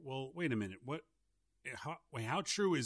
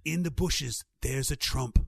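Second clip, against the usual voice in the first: louder alien whisper-warning, lingering; 7 dB louder than usual. Pretend. Alien guide pointing out a Trump in the bushes, louder alien voice. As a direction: spot the strange creature in the bushes, alien-style. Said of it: "That's my alien voice".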